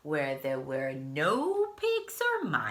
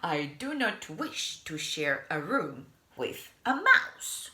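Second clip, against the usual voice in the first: complain, laughing at the end; indignant with a laugh. Acted. Mister Snore refusing the mouse, laughing indignantly.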